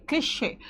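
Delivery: क्लिशे ending in a clear "ay"; final e as ay. Shown as a demonstration. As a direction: say क्लिशे as klee-SHAY, the accented e sounded. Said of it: "इसका pronunciation ए".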